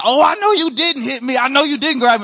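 mock him right back in her voice; mocking wife.

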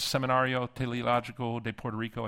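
Spanish name in a plain American accent; gringo accent. Real, not acted. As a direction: Seminario Teológico de Puerto Rico said with American vowels. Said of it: "I say that like a gringo".

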